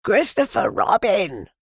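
high, loud call of a name. A narrator's reading. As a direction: call out to someone far below. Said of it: "he called down to you again".

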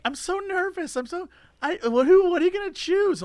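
high, soft nervous fluster; nervous mock woman. Telling friend about the woman in the video, nervous. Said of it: "this woman shows up and is like".

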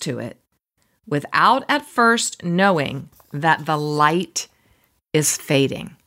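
deliberate, paused retelling of a quote; measured recitation. Real, not acted. Host repeats the dusk quote to listeners, measured recitation. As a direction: spell out each phrase with weight.

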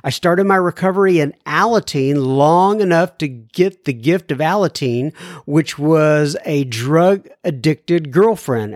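measured radio host reading; clear, deliberate mail-segment read; letter read aloud. Acted. Reads a listener's letter aloud.

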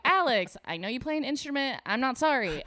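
hammed-up contrite roll call; mock apology. Comedian apologising to each comic next day, hammed-up sorry.

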